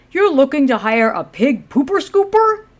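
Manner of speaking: high, loud disbelieving question; can't believe the job offer; incredulous. Acted.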